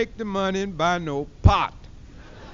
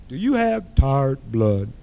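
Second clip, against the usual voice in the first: low, slow, deep announcer voice; solemn TV ad man asking; commercial announcer; 9 semitones lower, slower than usual. Retold or imitated. Comedian quoting the Geritol ad, low slow announcer. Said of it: "that Geritol commercial".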